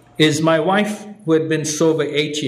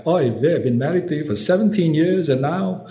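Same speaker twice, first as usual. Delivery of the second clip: put-on old Jewish man with Yiddish accent, higher; 4 semitones higher than usual. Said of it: "came out the seventy-five-year-old Jewish guy".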